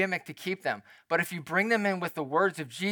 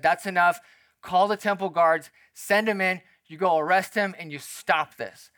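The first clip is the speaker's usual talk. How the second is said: louder, firm string of orders; commanding Pharisees; 5 dB louder than usual. Acted. Pharisees sending temple guards to arrest him, commanding. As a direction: lay down the law as an irritated authority.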